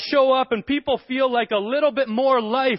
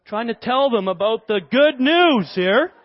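shushing serious angel; 2 semitones higher, 4 dB louder, slower than usual. Pretend. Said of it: "this angel's maybe more serious one".

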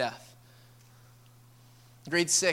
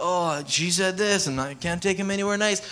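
mock spouse complaint. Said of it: "weird vibe that marriages always have".

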